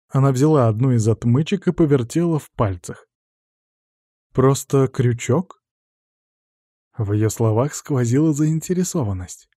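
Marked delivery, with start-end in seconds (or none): 4.3-5.6 slow, intrigued question; curious surprise. Acted. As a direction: wonder at the tool. Interested question. (с интересом, медленно)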